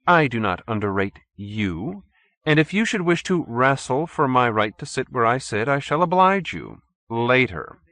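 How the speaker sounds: lightly voiced arrogant villain; haughty chairman. A narrator's reading. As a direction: sound superior and patient. Stolz answers his rival.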